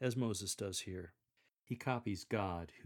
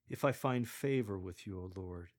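humble tone; 2 semitones lower than usual. Shown as a demonstration. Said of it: "use a humble tone of voice".

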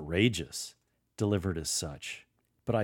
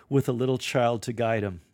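chuckling, higher and louder; with a little chuckle; 4 semitones higher, 6 dB louder than usual. Shown as a demonstration. Lector reading the preposterous line, with a chuckle. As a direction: let the amusement spill into the words. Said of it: "Add a little chuckle to your voice here".

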